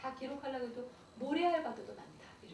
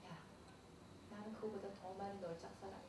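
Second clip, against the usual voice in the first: tender God voice; 4 semitones lower, 11 dB quieter than usual. Retold or imitated. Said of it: "하나님 뭐라시는지 알아요?".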